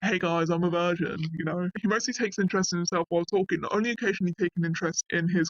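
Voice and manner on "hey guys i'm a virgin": lightly announcing it to a group; mildly hammed-up announcement, as if volunteering news; mock unprompted announcement. Telling everyone unasked, as a mild mock announcement. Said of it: "Why would you just announce that?".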